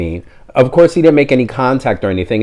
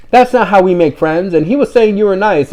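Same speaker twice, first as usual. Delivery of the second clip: higher, mock owner lecturing a dog; imitating an owner scolding her dog, higher; 9 semitones higher than usual. Owner explains manners to her dog, higher mock scolding.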